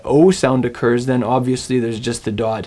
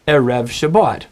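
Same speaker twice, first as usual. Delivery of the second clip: erev stressed on the second syllable, REV; stress on last syllable. Shown as a demonstration. Teacher voicing the assumed accent, erev stressed on its last syllable. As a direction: put the weight on the end of erev. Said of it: "You would assume that you would say".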